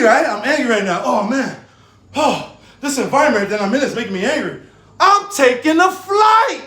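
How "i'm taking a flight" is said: excited laughing shout. Retold or imitated. Acting out deciding to leave.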